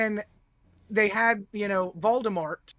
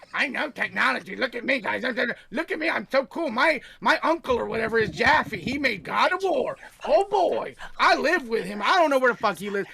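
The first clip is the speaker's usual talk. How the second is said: mocking braggart. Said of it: "act like".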